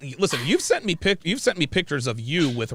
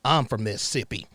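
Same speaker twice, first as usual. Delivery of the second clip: put-on Mississippi accent. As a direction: play a stern but restrained Southern gentleman. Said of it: "you imitating my accent".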